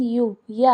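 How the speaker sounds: यू, या sounded out with an initial consonant y; y-sound demo. Shown as a demonstration. Teacher explains why European takes "a", sounding out यू, या. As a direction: stress the y glide opening यू, then या. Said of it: "क्योंकि यहाँ pronunciation".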